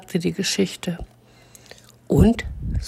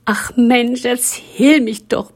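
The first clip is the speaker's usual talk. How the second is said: high, pleading little voice, drawn out; a small voice pleading to be told; begging story; 8 semitones higher, 4 dB louder, slower than usual. Acted. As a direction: beg like a lonely child. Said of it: "bettelte die Geschichte".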